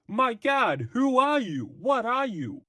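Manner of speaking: very high, hammed-up alarm; startled stock character. Police officer demanding who the Phantom is, high hammed-up voice. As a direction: pitch it way up like a cartoonish cop. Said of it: "a character that speaks like this".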